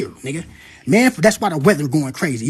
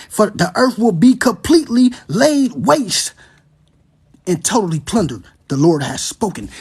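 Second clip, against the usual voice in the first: rising preacher's reading of the prophecy; proclaiming the verses to the congregation; scripture reading. Acted. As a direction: read it like a sermon, building. Reads scripture aloud, preaching.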